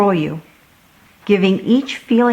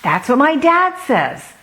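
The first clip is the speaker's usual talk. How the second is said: smiling; 7 semitones higher than usual. A narrator's reading. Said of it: "Sam smiled".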